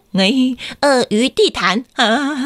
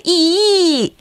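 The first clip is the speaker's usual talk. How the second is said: cheering; 7 semitones higher than usual. Shown as a demonstration. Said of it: "我们一起跟他说".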